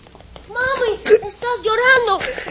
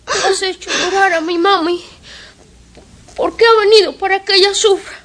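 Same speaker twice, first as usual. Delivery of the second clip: put-on tearful child; 9 semitones higher than usual. Child defends his mami.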